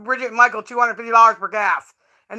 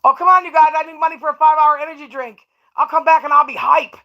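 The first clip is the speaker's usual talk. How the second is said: mock begging; 4 semitones higher than usual. Mock begging for energy money.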